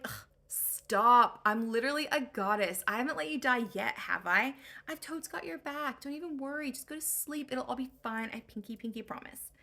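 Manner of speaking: put-on loud opening ugh, then a breezy teen voice; exasperated valley girl. Athena reassuring Odysseus, in an exasperated valley-girl voice. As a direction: brush off his worry like a bored teen.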